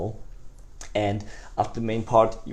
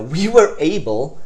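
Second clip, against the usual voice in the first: higher, louder and slow on "were"; enthusiastic; 4 semitones higher, 7 dB louder, slower than usual. Shown as a demonstration. Salesman boasting results to prospect, higher and louder. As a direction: lift "were" with excitement. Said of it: "you wanna be again enthusiastic".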